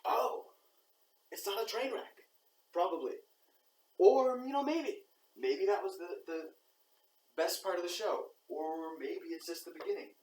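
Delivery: high, loud, amazed audience voice; surprised audience member. Retold or imitated. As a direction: play a stunned viewer who is suddenly relieved. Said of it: "you're like".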